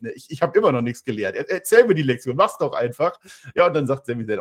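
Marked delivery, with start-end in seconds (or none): 0.1-3.2 mock freak-out. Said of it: "Owens tickt wieder komplett durch".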